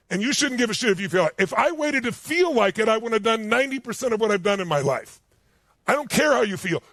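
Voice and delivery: ordinary talk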